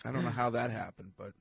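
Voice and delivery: numb mouth from Novocaine; talking with a numbed mouth; drooling. Real, not acted. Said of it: "my mouth is shot up with Novocaine".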